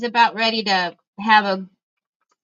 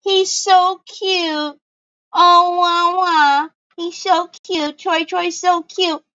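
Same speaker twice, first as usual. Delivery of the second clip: imitating doting friend; 4 semitones higher, slower than usual. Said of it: "She thought it was just the cutest thing".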